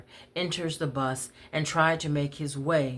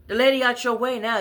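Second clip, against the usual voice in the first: loud, much higher, fast yell; raised furious shout; 9 semitones higher, 7 dB louder, faster than usual. Retold or imitated. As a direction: shout him down. Woman yells at man.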